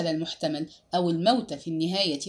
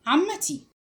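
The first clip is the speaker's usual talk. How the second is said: higher-pitched, restrained cry; exclaimed; 7 semitones higher, slower than usual. A narrator's reading. Niece cutting in on her aunt, mildly crying out. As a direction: call out in mild protest, pitch raised. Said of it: "فهتفت الفتاة".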